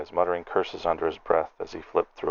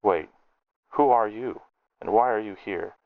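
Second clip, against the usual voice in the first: higher, suspicious challenge; sharp demand; 3 semitones higher than usual. Acted. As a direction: turn on him suddenly. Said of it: "his tone turned sharp".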